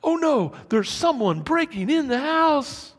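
high, loud panicked cry; panicked alarm. Acted. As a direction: blurt it out in mock terror. Acts out panic at noise.

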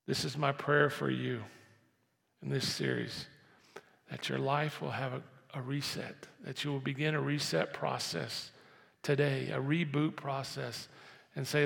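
normal talking voice

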